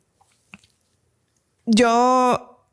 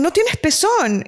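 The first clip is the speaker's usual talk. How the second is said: slow, higher, flat-out verdict; blunt nurse; 8 semitones higher, slower than usual. Retold or imitated. Nurse bluntly informing the teen mother, slow. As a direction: lay the bad news on slowly.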